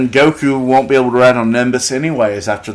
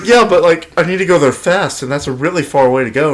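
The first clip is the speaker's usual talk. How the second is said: higher whiny Goku voice, laughing a bit; imitating Goku, amused; 4 semitones higher than usual. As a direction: make Goku sound higher and pleading. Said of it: "He's like".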